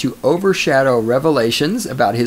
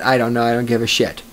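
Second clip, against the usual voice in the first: ordinary delivery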